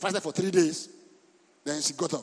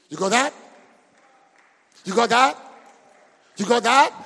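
calling out; 2 semitones higher, 6 dB louder than usual. Real, not acted. Calling to congregation.

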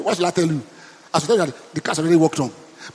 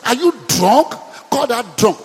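louder, scornful priest's question; mock accusing; 3 semitones higher, 3 dB louder than usual. Priest accusing praying Hannah of drunkenness, louder. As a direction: throw the accusation at her. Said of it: "Listen to that".

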